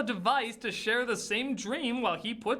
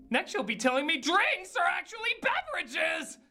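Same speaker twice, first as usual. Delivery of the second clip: sarcastic mock surprise; 10 semitones higher than usual. Mock shock at obvious twist.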